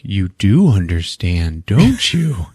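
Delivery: slow, deliberate mock menace rising at the end; lightly acted threat, drawn out; menacing intruder. Intruder to the woman left alone, menacing.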